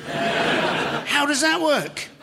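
slow, high, through a laugh. Real, not acted. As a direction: ask it while still laughing. Laughing at absurdity.

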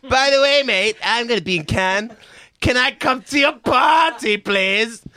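host mock-begging a party invite; eager begging. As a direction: beg like an overexcited fan. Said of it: "I was like".

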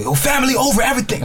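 lightly voiced Italian accent, high; a hint of a mafia-style Italian accent. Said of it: "Italian accent".

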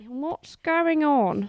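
slow, drawn-out bewildered voice; dazed commuter. Pretend. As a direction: sound lost and dazed. Mock confused commuter.

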